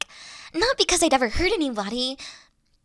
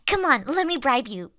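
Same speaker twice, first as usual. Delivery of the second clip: normal talking voice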